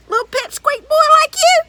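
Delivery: high, loud mocking giant; scornful giant. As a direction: sneer it out big and loud. Giant scoffs at Jack.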